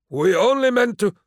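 high, strained pleading voice; frightened old man. A narrator's reading. Old Murdoch pleading with Lyco, high and frightened. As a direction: beg before being cut off.

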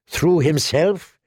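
disbelieving, slow rising "Threw himself?"; incredulous echo. Acted. Tyrion echoes in disbelief.

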